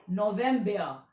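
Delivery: नवंबर repeated as "no-VEM-bea"; silent final R. Shown as a demonstration. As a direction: drop the R in नवंबर, ending on "bea". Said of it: "आर silent है".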